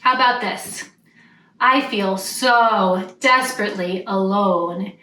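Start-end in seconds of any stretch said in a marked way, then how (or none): 1.6-4.9 sarcastic. Shown as a demonstration. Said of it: "rolled his eyes".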